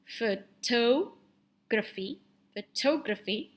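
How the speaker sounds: "Photography" split, fuh-TOH-gruh-fee; modelled pronunciation. Shown as a demonstration. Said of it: "Next is this one".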